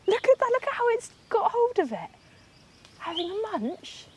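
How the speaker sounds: high, delighted squeal; can barely contain the thrill; excited. Real, not acted. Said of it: "can't contain myself".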